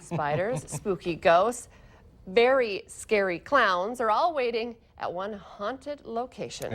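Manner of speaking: slow, drawn-out haunted-house tease; playful Halloween news read; spooky intro. Acted. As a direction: linger on each creepy item.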